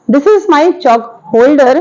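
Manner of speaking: very slow, each word set apart; slow teaching example. Shown as a demonstration. Teacher pointing at her chalk holder for students, slow and deliberate. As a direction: spell it out slowly for beginners. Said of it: "मैं बता सकती हूँ".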